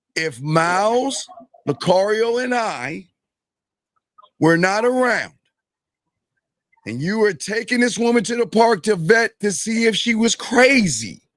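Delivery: slow, deliberate, drawn-out, spelled-out pacing. Speaker slowing down to put a question to the listener, speaking slowly. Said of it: "I'm going to slow it down".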